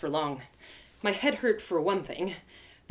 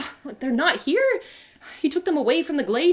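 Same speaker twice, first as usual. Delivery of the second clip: character voice; 6 semitones higher, 3 dB louder than usual. Acted. Narrator voicing Rock character.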